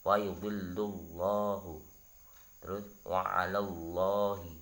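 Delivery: wa yudhillullahu with a thick, dark Allah; teacher's heavy-lam demo. Shown as a demonstration. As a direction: recite the examples with tafkhim. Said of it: "contohnya dibaca tebal".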